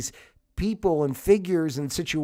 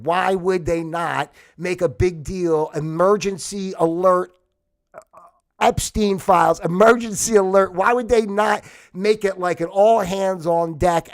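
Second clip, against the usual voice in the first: louder, insistent outrage; heated rant; 6 dB louder than usual. Real, not acted. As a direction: hammer the point home with indignation. Heated rant about Epstein files.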